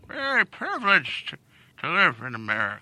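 put-on grumpy old man. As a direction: drag it out like a grandpa. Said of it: "use the old voice again".

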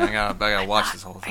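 fast whisper. Real, not acted. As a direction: whisper it right into the mic. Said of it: "that's the whisper point".

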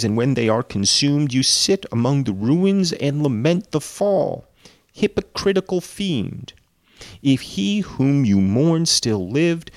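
slow, scornful reading; story narration. A narrator's reading. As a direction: read it as a stern rebuke. Reads Walton's rebuke.

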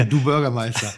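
chuckling through du Bürgermeister; laughing mock address. Real, not acted. Teasing his co-host about the mayor, laughing. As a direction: laugh while saying du Bürgermeister.

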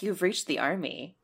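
official phone greeting. Pretend. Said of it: "it was like".

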